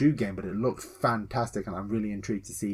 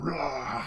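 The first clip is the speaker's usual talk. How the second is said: imitated demon roar; 2 semitones higher, 4 dB quieter than usual. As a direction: roar like a demon, without volume.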